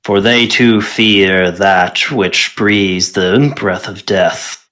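slow, low solemn giant; booming giant voice. Acted. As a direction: intone it like an ancient giant. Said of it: "he says in a booming voice".

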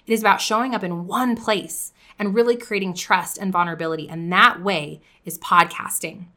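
direct, pointed sales pitch; tough love pitch. Shown as a demonstration. Podcaster to listeners, direct tough love pitch. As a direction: call out the listener's pain, then push. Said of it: "you're gonna notice a difference in my voice".

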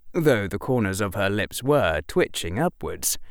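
usual speaking voice

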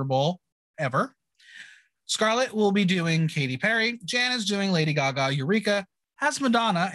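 lightly performed episode-recap narration; measured podcast recap read; scripted recap read. Acted. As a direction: read it out like a recap host, names set apart.

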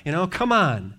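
high, pushy hostess calling the apostle over; lightly voiced bossy Lydia. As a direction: mimic a forceful lady ordering a guest home. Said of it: "This is how she talks to the apostle".

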